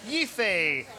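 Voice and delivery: slow drawn-out Boston "Law"; Boston accent. Shown as a demonstration. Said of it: "Say law" in a Boston accent".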